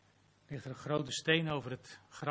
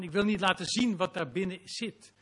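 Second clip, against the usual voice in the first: raised, louder pleading confession; ashamed Martha; 4 semitones higher, 7 dB louder than usual. Acted. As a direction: plead in shame, voice lifted. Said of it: "Ze zegt eigenlijk van".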